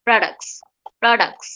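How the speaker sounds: প্রোডাক্টস with the t swallowed; প্রোডাক্টস as pro-dux, t dropped; American pronunciation. Shown as a demonstration. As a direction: say প্রোডাক্টস quickly, no t. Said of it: "ওরা বলবে প্রোডাক্টস".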